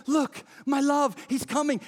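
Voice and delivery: woman at home spotting her lover, excited. Acted. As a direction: announce him with joy. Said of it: "she's sitting in her house and she's like".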